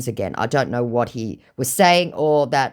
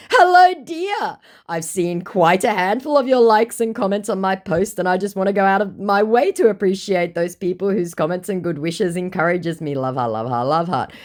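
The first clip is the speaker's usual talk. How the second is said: mock sweet scammer; 6 semitones higher, 4 dB louder than usual. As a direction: lay on the fake charm. Scammer message read aloud.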